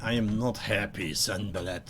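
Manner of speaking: lightly voiced grumbling hobgoblin; a hint of a stammering brute. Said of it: "says the hobgoblin as he looks at Sanballat".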